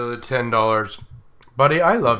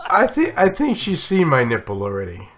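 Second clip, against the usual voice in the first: laughing; 6 semitones higher than usual. Real, not acted. Laughing through the line.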